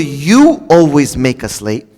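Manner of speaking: slow blaming "You always make us late"; accusing. Shown as a demonstration. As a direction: lean on "You", slowly. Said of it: "as opposed to".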